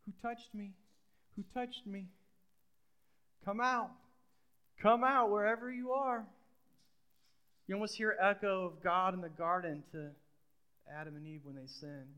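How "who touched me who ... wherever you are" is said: calling out. Acted. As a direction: call her out of the crowd, rising as you go. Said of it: "Jesus is calling out to the woman".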